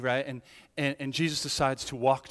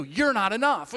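higher, louder taunting jab; accusing enemy; 5 semitones higher, 5 dB louder than usual. Acted. The enemy accusing the believer, higher and louder. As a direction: throw it as an accusation.

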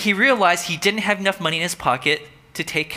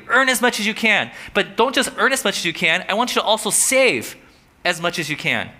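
hint of a fervent preacher; preaching Wesley; 4 semitones higher than usual. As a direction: preach it with conviction.

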